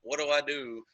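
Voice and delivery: imitating a helpless Facebook whiner; hammed-up woe-is-me venting; mock complaining. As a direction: put on a helpless moan. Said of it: "post on Facebook and be like".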